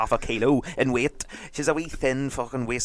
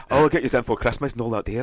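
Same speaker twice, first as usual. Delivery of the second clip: put-on Scottish manager accent; faster than usual. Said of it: "he has to adapt their accent".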